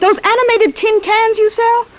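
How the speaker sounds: high, slow and scornful; scornful scoff. Acted. Wife scoffing at her husband's robots, high and slow. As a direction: sneer at his tin cans.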